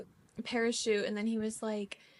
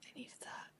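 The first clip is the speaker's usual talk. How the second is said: relaxed sigh; 2 semitones higher, 13 dB quieter than usual. Real, not acted. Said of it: "so relaxed".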